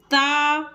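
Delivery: "ता" with a long held आ; full, open vowel. Shown as a demonstration. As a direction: open wide and stretch "ता". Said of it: "ता बोल, पूरा बोल रहे हैं ना". ("ता" को मुंह खोल के पूरा बोलें)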